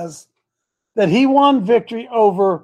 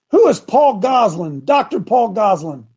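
repeating to voice assistant. Real, not acted. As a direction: speak up so the phone hears. Asking the phone assistant loudly.

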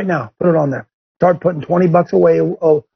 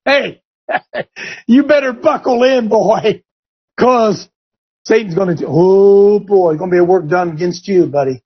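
said loud. Retold or imitated. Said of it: "Say loud now".

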